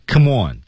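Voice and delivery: "Come on" joined into one word; linked reading. Shown as a demonstration. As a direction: slide from "Come" into "on" without a gap. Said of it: "连读".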